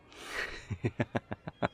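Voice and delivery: amused laugh. Acted. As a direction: laugh in quick breathy bursts. Amused by fried food.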